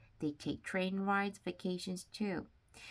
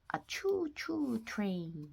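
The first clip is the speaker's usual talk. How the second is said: punchline; 7 semitones higher, slower than usual. Acted. Punchline of a train joke.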